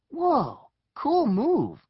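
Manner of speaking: high, wowed exclamation; impressed amazement. Acted. Eric admiring the girl's throw, high impressed wonder. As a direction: marvel at the trick.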